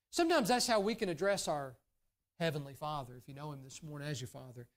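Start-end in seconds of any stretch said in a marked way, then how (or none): none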